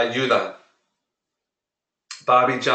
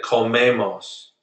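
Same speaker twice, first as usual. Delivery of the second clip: slow model; slower than usual. Shown as a demonstration.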